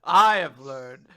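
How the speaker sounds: mock All Might as a stiff robot; robotic hero. Cohost mocking All Might as a robot, slow and stiff. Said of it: "he sounds like a robot".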